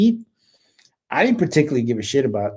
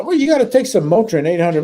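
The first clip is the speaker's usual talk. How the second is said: mock doctor; 4 semitones higher than usual. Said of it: "a civilian doctor said".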